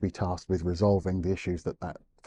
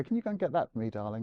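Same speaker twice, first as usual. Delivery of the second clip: higher, softer sing-song ask; sweet parent request; 4 semitones higher, 6 dB quieter, faster than usual. Retold or imitated. Parent to small child asking for a favour, lightly sweet. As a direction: coax a small child kindly.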